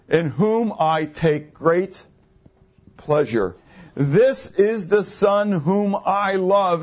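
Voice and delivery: slow, deliberate, every word weighed; solemn voice from heaven. Acted. God from heaven declaring over his son, slow and solemn. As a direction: proclaim it like God speaking over the water. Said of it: "a voice came from heaven saying".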